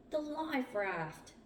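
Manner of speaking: high, drawn-out sighting call. A narrator's reading. Mark pointing ahead of the Zodiac, calling out. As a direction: call it out, stretching the words.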